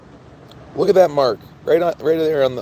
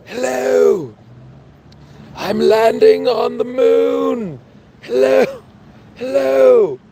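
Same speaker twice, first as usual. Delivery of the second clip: high calling hello; 8 semitones higher, much slower than usual. Pretend. Streamer calling hello to chat, high and drawn out. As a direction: sing out each hello high and slow.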